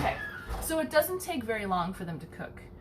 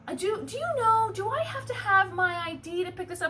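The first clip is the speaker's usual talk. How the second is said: imitating the lady; 10 semitones higher than usual. Voicing the lady.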